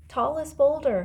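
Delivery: high, loud answering call; calling back. A narrator's reading. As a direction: call back from among the rocks. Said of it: "his voice came from the rocks".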